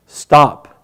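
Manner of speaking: disembodied voice. Acted. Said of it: "a disembodied voice".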